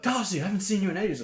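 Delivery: put-on high, loud sloppy drunk greeting; drunk friend. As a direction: gush like a happy drunk mate. Imitating drunk friend at party.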